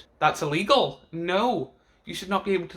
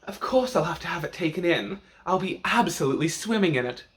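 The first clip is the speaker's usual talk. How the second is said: campy drag queen; 4 semitones higher, faster than usual. Retold or imitated. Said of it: "and then Cracker with the".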